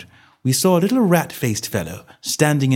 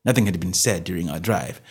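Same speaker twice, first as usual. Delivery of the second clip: plain reading voice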